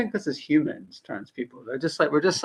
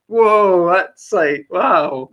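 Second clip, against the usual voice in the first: mock stunned reaction, louder on the first word; taken aback; 6 dB louder, much slower than usual. Imitating people floored by a bold comeback, taken aback. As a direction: imitate someone caught off guard. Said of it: "totally taken aback by that".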